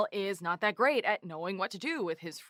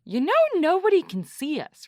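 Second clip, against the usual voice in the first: high, loud incredulous objection; loud exasperation; 8 semitones higher, 8 dB louder than usual. Acted. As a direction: point out the obvious, voice raised. Exasperated at partner's visual gag.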